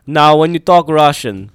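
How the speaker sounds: slow put-on Russian accent. Shown as a demonstration. Host coaches Jamie in Russian, put-on Russian accent. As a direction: teach it slowly in a Russian accent. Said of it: "Let's talk some Ru".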